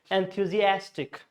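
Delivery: "enthusiastic" with lighter early stress, main stress on "as"; secondary and primary stress. Shown as a demonstration. Teacher showing two stresses, "enthusiastic" with the main one on "as". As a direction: lean most on "as" in "enthusiastic". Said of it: "secondary and primary".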